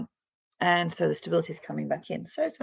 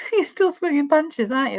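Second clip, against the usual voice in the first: laughing tease; 9 semitones higher, 4 dB louder than usual. Real, not acted. Reader joking about the client's fight, laughing and high-pitched. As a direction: tease them through a laugh.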